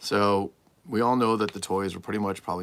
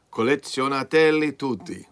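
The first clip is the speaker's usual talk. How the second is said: hammed-up slogan; 6 semitones higher, 9 dB louder than usual. Reading the box slogan aloud.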